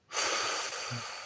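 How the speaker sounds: long, soft exhale; weary sigh. Real, not acted. Streamer too brain-dead to make sense, weary sigh. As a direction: let out a drained breath.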